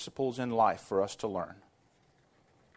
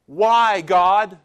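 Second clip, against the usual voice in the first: loud, higher anguished plea; crying out why; 5 semitones higher, 12 dB louder than usual. Retold or imitated. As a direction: throw the question up at heaven. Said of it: "asking God one of two questions".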